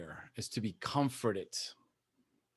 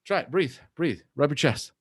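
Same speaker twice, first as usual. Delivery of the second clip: self-coaching. Shown as a demonstration. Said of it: "So I'll be like".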